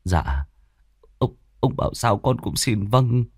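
soft, stammering submission; bow and agree meekly; cowering. Acted. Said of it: "khốm núm sợ sệt".

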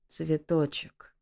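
slow, weak croak of a waking man; faint hoarse murmur; hoarse rasp. Acted. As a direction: rasp the name out barely alive. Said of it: "прохрипел Асгард".

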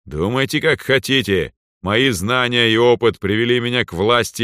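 proud overlord speaking down; arrogant lord. Acted. Lord mocks the ancestors.

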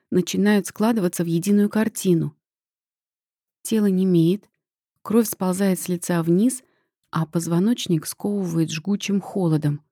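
ordinary delivery, nothing marked

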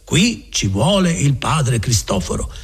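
a slow mock-solemn decree; quoting the provincial. Friar imitating the provincial's decision, mild mock solemnity. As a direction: pronounce it like a superior's order. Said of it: "il padre provinciale avrà detto".

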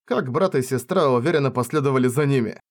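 ordinary delivery

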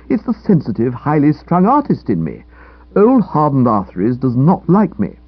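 indignant, emphatic self-defence; worked-up character voice, protesting; aggrieved young man. Acted. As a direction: sound like a touchy artist with wounded pride.

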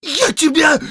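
high sputtering shout; words stick in his throat; choking with rage. Acted. Count choking on fury, high sputter. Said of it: "поперхнулся сын маркграфа".

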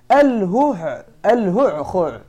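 both throat sounds pushed hard from the throat; demo word hu'khu'. Shown as a demonstration. Teacher showing students a hard-to-say word, harsh throat sounds. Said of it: "مثال ذلك كلمة".

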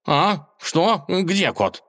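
high, startled cat just woken; startled awake. Acted. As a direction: jolt awake and blurt it out. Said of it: "Учёный вскочил".

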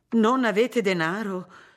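incredulous outburst; astonished cry. A narrator's reading. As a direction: cry out in disbelief, stretching the words. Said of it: "gridarono le sorelle con una bocca sola".

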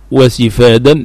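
وسفادا with an i on the sin; kasra on sin. Shown as a demonstration. Teacher shows students the verbal noun, with kasra. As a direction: say وسفادا as "wa-sifadan", short i after the s. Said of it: "بكسر السين".

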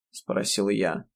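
plain reading voice

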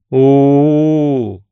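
long loud eerie ooh; loud drawn ghostly moan; drawn-out crowd ooh. A narrator's reading. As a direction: stretch the sound out as a crowd. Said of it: "протянула толпа мертвецов".

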